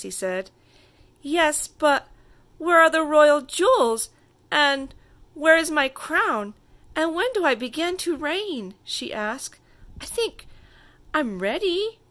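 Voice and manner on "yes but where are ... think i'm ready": high, loud, eager questions; eager little girl. A narrator's reading. Little girl pestering her father about her crown, high and eager. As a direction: bounce with royal impatience.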